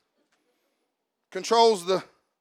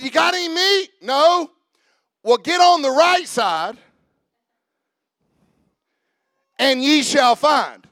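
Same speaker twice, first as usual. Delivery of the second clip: Jesus's way of wording; 6 semitones higher, 6 dB louder than usual. Shown as a demonstration. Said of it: "Who talks like that? Jesus".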